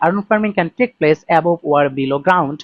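very slow, word by word reading; slow read-aloud. Shown as a demonstration. Teacher reads the IELTS sentence aloud to students, very slowly. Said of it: "আমি যদি এই সেন্টেন্সটাকে একটু পড়ি".

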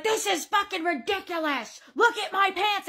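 mock outraged customer; imitated freak-out. Customer complaining about his ruined pants, imitated freak-out. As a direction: act out a customer lightly freaking out. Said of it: "this douche canoe is freaking out".

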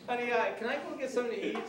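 high, quick, sheepish plea to his wife; husband pleading with wife for food, meek and quick. Retold or imitated. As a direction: ask meekly, trying to dodge trouble. Husband placating wife after tense hi.

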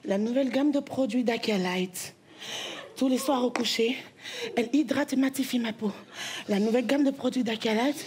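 low, smooth commercial read; luxury ad voiceover. Pretend. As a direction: purr it like a perfume ad. Parodies luxury cosmetics ad.

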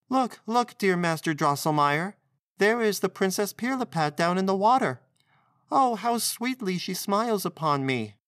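high-pitched, delighted exclamation; joyful cry. A narrator's reading. Maria shows Drosselmeyer the princess in the water, joyful cry. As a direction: call out in high, eager delight. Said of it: "she cried joyfully".

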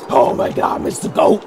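hoarse, voiceless mock freak-out; hammed-up manic outburst; spazzed-out act. Player acting out the result of energy drinks, spazzed-out act. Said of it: "you're, like, really fucking spazzed out".

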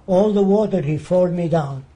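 lightly mimicked Arab leader's halting English; imitated Arab-accented pidgin, deliberate phrasing; imitated broken English. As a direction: act out a foreigner reasoning in broken English. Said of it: "He says".

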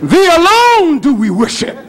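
hammed-up reverent prayer; mock pious prayer. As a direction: intone it like a devout worshipper. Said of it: "this great big man".

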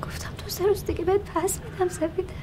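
urgent whispered reply; whispering to her sister mid-argument. Acted. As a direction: hiss it under her breath so he won't hear. Secret reply during fight.

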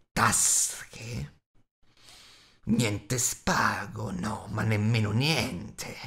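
very slow, muttering creature voice; Gollum voice. A narrator's reading. Gollum grumbling to himself about Bilbo's pockets. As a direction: Gollum sulking over the answer.

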